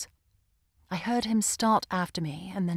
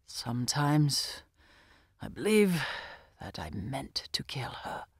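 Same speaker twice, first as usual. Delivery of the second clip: whisper; 5 semitones lower than usual. A narrator's reading. Brooding man's confession.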